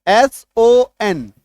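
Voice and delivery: एस ओ एन spelt out slowly, letter by letter; slow spelling. Shown as a demonstration. Teacher spelling son for students, slow and deliberate. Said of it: "ऐसे एक और देखिए सब".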